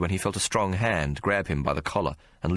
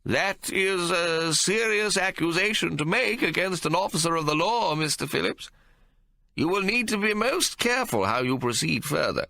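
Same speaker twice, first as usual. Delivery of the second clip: stern judge; 12 semitones higher than usual. Acted. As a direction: warn the barrister gravely from the bench. Judge warns the barrister.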